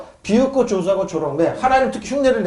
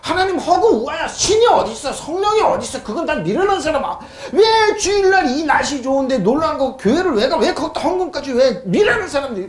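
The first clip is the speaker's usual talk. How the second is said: lightly voiced scoffer, higher, chuckling; mocking unbeliever; 5 semitones higher than usual. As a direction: brush off churchgoers with a laugh. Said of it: "자기들을 합리화하기 위해서 이런 말". (살짝 웃으며 비꼬는 불신자 흉내)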